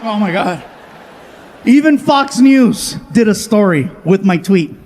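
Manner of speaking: usual speaking voice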